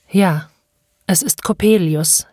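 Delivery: understated resignation; a father's slightly worn-out confirmation; weary, broken voice. Acted. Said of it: "wiederholte der Vater mit matter, gebrochener Stimme". (matt, leicht gebrochen)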